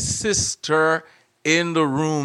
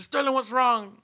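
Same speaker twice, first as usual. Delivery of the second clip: mom voice; 9 semitones higher than usual. Retold or imitated. Mother voiced in joke.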